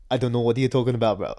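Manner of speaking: hurried, badly faked African accent; a half-hearted go at an African accent; attempted African accent. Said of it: "I can't do an African voice".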